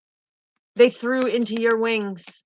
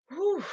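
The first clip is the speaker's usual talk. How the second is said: emotional exhale; 8 semitones higher, 5 dB quieter than usual. Real, not acted. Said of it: "I'm getting emotional on this".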